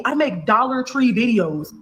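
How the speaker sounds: each word laid out slowly; spelling it out for viewers, slowly; slow, pointed. Real, not acted. To viewers mocking the gold digger claim, slow and pointed. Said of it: "y'all literally see".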